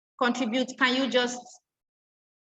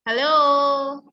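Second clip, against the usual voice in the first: calling out; 2 semitones higher, 6 dB louder than usual. Real, not acted. Checking if the class hears her.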